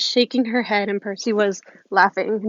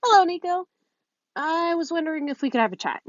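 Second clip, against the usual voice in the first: bright Piper voice; 8 semitones higher, faster than usual. A narrator's reading.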